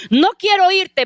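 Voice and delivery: the preacher mimics the woman shouting on the phone, a mild mock yell; imitated scream. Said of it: "Y esa mujer gritaba".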